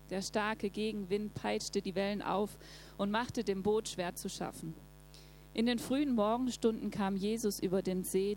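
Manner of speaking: steady, measured Bible reading; calm scripture reading voice. Acted. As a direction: read the passage to the congregation. Reads Bible passage aloud.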